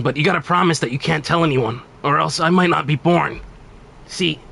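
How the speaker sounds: lightly voiced earnest young warrior; a hint of urgent Trunks pleading; Trunks impression. Streamer doing Trunks on request, warning Goku, lightly voiced and urgent. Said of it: "you want me to do Trunks?".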